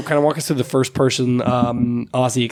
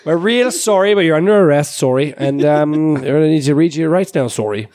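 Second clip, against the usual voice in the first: put-on Canadian accent; 3 semitones higher than usual. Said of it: "weird mix of Canadian, some form of Irish".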